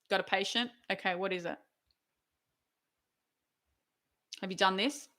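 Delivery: very quiet, understated questioning; intimidating senior doctor. Acted. Scary senior doctor questioning the junior, quietly intimidating. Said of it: "she still intimidates me because she's just like".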